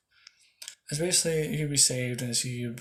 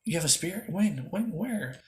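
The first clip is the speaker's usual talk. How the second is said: surprised questioning; 5 semitones higher than usual. Acted. Julius surprised by spirit.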